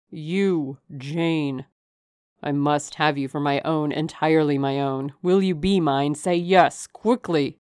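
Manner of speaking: loud, insistent demand for an answer; urgent suitor. A narrator's reading. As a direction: build to an urgent command. Narrator voices the urgent suitor.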